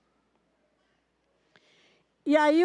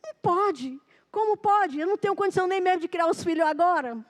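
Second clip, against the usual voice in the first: high, fast, incredulous protest; pitched-up panicked objection; disbelief; 4 semitones higher than usual. Retold or imitated. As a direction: blurt it out in disbelief. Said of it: "Aí ele ficou".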